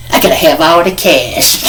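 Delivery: lightly put-on funny voice; funny inmate voice. Imitating the big inmate's robbery line, funny voice. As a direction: imitate him with a silly demand. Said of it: "had a real squeaky voice".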